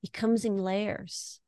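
put-on mother softly explains grief to her child, gently; tender to child. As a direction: soothe a small child, hushed. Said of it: "It's like".

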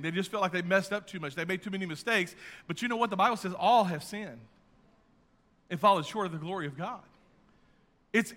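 ordinary talk, nothing marked

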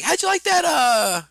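high, loud put-on parent voice; lilting high question to a child; parent probing casually. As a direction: ask your kid in a high sing-out voice. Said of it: "and I was like".

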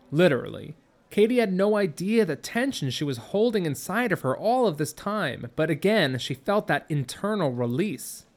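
plain reading voice

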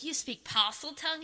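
shocked question. Retold or imitated. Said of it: "Everyone's like".

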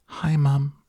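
put-on high-pitched little boy's pipe; tiny squeaky voice. A narrator's reading. Shrunken boy greeting his mother, tiny squeaky voice. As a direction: squeak it out like a mouse. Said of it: "A tiny little voice, no louder than the squeaking of a mouse".

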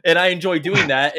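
high, loud retold declaration; mock boasting. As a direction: imitate someone proudly owning up, emphatically. Acting out killer's boast.

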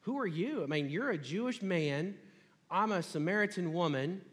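high, sassy pushback at a stranger; defensive woman sassing the stranger at the well. Retold or imitated. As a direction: throw it back at him with a little sass. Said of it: "maybe a little bit of sass".

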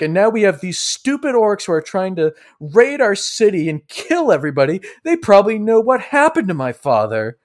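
high-pitched acted ranting; very angry Sidroy. Sidroy rants at Silas about the orcs, angry. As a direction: keep the heated accusation going. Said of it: "he gets up very angry".

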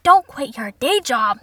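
loud, slow outraged echo; indignant repeat. Acted. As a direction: throw the words back loudly, drawn out. Outraged repeat of mother's line.

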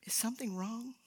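soft whispered caring questions; gentle whisper. Shown as a demonstration. Preacher whispering kind questions to a hurting man. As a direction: whisper it like checking on a stranger.

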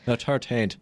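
"thirteenth" starting with a hard T; Irish pronunciation. Shown as a demonstration. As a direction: mimic Irish "thirteenth" as "turteenth". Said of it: "They say thirteenth".

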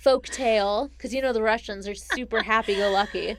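dry ironic joke; sarcastic. Acted. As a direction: sell the irony with a straight face. Sarcastic joke about Russians.

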